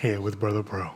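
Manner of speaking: low, soft late-night DJ voice; quiet-storm radio DJ. Pretend. Teasing co-host's radio voice with a mock show intro, low and soft.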